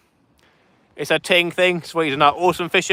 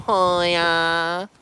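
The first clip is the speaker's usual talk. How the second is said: silly drawn hiya. Pretend.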